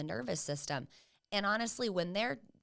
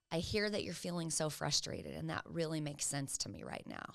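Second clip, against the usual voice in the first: validating; 5 dB quieter than usual. Acted. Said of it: "That's validating".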